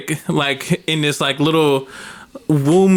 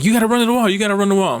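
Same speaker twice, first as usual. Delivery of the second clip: put-on kids yelling; 7 semitones higher, much faster than usual. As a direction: yell at him to run. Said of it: "then they're like".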